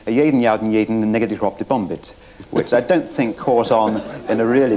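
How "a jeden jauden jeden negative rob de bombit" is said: mock Norwegian gibberish; cod Norwegian. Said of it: "burble cod Norwegian".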